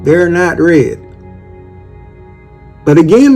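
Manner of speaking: normal talking voice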